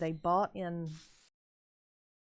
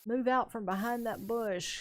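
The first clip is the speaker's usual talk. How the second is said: higher-pitched mock catcall, no real shouting; retold holler; 5 semitones higher than usual. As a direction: imitate a man hollering from a truck. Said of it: "somebody hollers".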